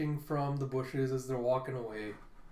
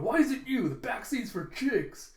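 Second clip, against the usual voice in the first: high, raised mock protest; freaking out; 8 semitones higher, 3 dB louder than usual. Frankie objecting to Brook taking the back seat, freaking out. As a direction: squawk in comic objection. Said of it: "Frankie's freaking out going".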